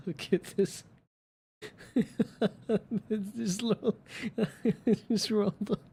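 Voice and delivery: high giggly cooing; laughing. Real, not acted. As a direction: giggle at the little ball of cat. Laughing at curled-up cat.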